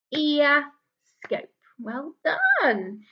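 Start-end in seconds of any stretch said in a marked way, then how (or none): 0.1-1.5 "Ear scope" broken in two, with a gap before "scope"; clapped-out syllables. Shown as a demonstration. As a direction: clap out "Ear", pause, then "scope". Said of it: "Let's clap out ear scope".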